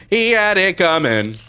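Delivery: sinister mother. Pretend.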